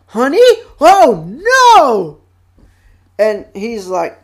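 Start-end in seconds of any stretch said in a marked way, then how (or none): 0.1-2.2 high, loud cartoon dismay; imitated Rabbit. Rabbit hears about the honey, mock-horrified cry. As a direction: wail it in mock panic. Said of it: "And Rabbit's like".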